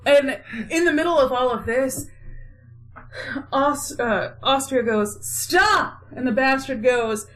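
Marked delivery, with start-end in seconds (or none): 5.2-6.0 high, sudden command; mock halting shout. Austria halting the in-law fight, mock commanding cry. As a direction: cut the bickering with a higher cry.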